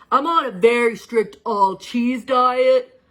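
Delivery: put-on a kid anxious about losing his snacks; worried kid. Charlie asking the teacher about old snacks, worried kid voice. Boy explains his diet.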